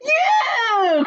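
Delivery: high, loud pounce cry; spring the word as you leap; cried out. A narrator's reading. Fox crying out as he leaps at the birds. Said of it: "cried Foxy Loxy".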